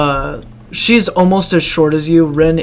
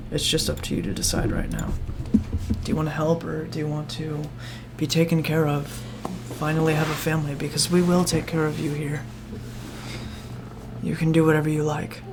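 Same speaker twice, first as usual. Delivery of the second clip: hushed urging; 9 dB quieter, faster than usual. Acted. NPC pleading with child quietly.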